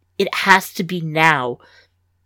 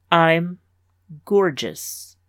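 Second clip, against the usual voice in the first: flat, no inflection; much slower than usual. Acted. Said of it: "her voice devoid of any inflection".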